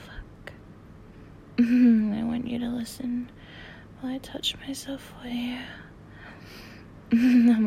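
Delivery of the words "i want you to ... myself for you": whispering. Real, not acted. Same words repeated whispered.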